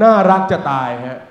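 ordinary talk

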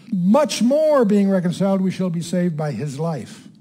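slow, measured Bible reading in separated phrases; emphatic scripture reading. Acted. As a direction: read the verse out deliberately, phrase by phrase. Reads scripture aloud to teach.

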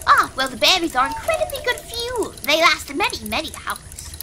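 put-on very old man. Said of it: "So with that voice done, I forgot how hard it is on my voice".

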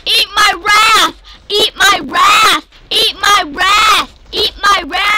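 slow, chanted battle shout; repeated gamer war cry. Real, not acted. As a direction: drag out each word like a war cry. Repeated battle cry at blue team.

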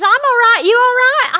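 high, loud call back up. Retold or imitated. Norm's mum calling back up to her, loud. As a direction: shout it up to the top of the wheel.

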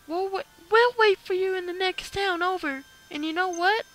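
put-on high, loud excited girl. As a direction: squeal it out like an eager girl. Voicing excited girl character.

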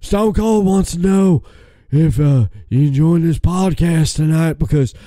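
Stone Cold impression. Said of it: "talk like Stone Cold Steve Austin".

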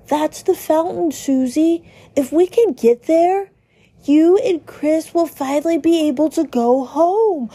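lightly voiced cheerful Ralsei. Narrator voicing Ralsei explaining the fountain, cheerful. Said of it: "Ralsei is cheerful".

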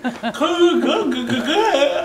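excited urging. Retold or imitated. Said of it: "She's like".

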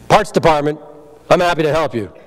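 a loud phone greeting cracking into laughter; laughing greeting. Shown as a demonstration. Trainer's greeting to the room breaks into laughing. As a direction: sound happy and laugh through it.

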